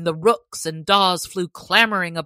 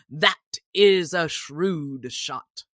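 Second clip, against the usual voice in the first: sheriff; 3 dB louder, slower than usual. Acted. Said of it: "cried the sheriff".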